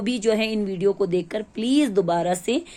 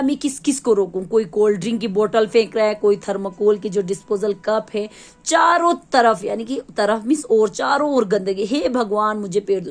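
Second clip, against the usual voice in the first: lightly voiced dustbin. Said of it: "वो कहने लगा".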